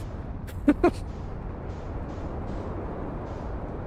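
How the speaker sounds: long, airy, voiceless chuckle; quiet laugh. Real, not acted. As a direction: laugh to yourself without voice. Laughs at own bad accent.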